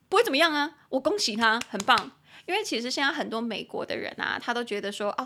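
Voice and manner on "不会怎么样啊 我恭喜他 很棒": sarcastic. Real, not acted. Sarcastic aside, loud.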